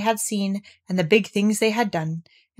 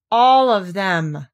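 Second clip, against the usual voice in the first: slow, louder sulky repeat; 5 dB louder, much slower than usual. Acted. Owl repeating to Eeyore, slow and sulky. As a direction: say it sulkily, put out. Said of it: "Owl said sulkily".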